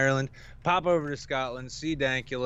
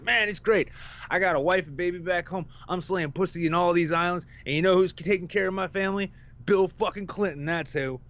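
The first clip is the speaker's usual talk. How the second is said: higher mock bragging voice; imitating boastful sailor; 6 semitones higher than usual. Coastguard guy bragging to the kid, mock boastful voice. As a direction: brag like a cocky sailor.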